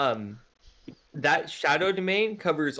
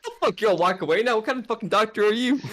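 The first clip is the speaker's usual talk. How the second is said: outraged laughing rant; 9 semitones higher, 5 dB louder than usual. Acted.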